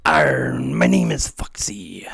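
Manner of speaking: put-on slow, low whispered pirate accent. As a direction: rasp out a pirate intro. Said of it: "He should be more like".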